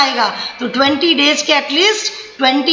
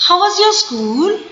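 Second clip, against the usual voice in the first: higher, slow motherly question; mother asking; 4 semitones higher than usual. Shown as a demonstration. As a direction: ask your child kindly. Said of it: "See my tone, my stress". (माँ प्यार से धीरे पूछती है)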